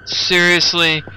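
loud disbelieving; can't believe it; incredulous. Real, not acted. Incredulous at map layout.

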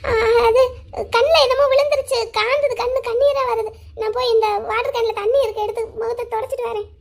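high voice holding back tears; tearful cover-up. Acted. Crying sister blames something in her eye, tearful. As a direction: make excuses through tears, fading at the end. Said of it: "எதுக்குக்கா அழுதுட்டு இருக்கீங்க".

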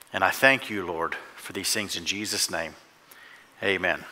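hushed closing prayer. Real, not acted. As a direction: pray gently, sinking to a hushed amen. Leads a prayer.

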